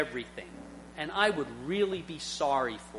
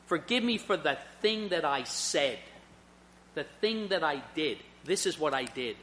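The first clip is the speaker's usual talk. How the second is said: sincere apology; 2 semitones lower, 4 dB quieter than usual. Shown as a demonstration. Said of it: "do I come to her and do I say".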